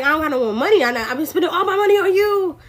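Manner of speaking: lightly voiced whiny sugar daddy; hint of a put-upon sugar daddy complaining. Sugar daddy complaining to his baby, lightly voiced whine. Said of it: "And he like".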